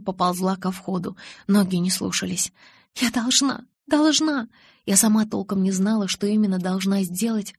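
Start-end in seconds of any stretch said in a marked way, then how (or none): 3.0-4.5 rising higher each time; desperate insistence. A narrator's reading. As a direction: cry out, building.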